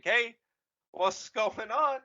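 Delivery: high, loud dopey greeting; lightly voiced bewildered rebel; mock Resistance voice. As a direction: call out like a clueless rebel.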